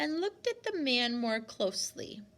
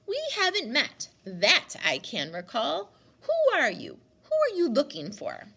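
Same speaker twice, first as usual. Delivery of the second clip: put-on louder, higher old woman's challenge; suspicious demand; 5 semitones higher, 6 dB louder than usual. Grandmother challenging the stranger at the gate, loud. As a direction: confront the stranger sharply.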